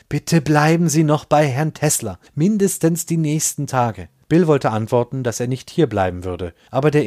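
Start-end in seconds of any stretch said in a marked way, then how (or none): 0.1-4.1 shaky voice. Acted. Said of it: "mit zitternder Stimme".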